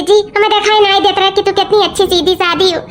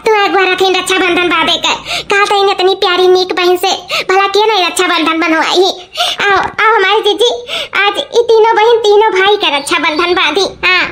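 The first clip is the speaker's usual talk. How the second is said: laughing happily. Acted. Sister inviting her elder sister to tie rakhi, laughing. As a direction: talk through happy laughter. Joyful reconciliation on Raksha Bandhan.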